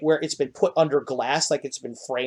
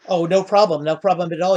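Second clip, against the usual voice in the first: higher, louder cheerful little gnome; eager gnome; 4 semitones higher, 4 dB louder than usual. Acted. Gnome host waving off the players' thanks, higher and louder. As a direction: brush off the thanks like a bubbly gnome.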